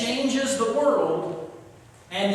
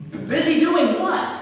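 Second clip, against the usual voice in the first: alarmed; 8 semitones higher, 4 dB louder than usual. Retold or imitated. Boss alarmed on phone.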